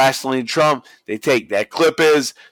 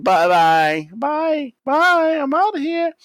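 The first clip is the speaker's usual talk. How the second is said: high singsong taunting goodbye; high-pitched mock bye-byes; mock farewell; slower than usual. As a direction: wave them off in a high, cheeky voice. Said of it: "starts waving".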